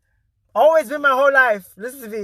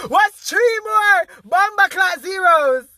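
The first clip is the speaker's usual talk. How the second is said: hyped shout; 6 semitones higher, 3 dB louder, slower than usual. Real, not acted.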